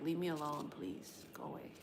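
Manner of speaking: from annoyed to a soft unvoiced whisper; fading whisper. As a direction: shoo it away in a fading hush. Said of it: "I be like".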